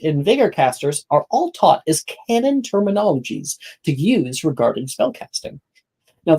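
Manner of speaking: measured, clearly projected scene setting; game master narration. Acted. Game master walking players through the class day, narration. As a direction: present it like a guide to the school.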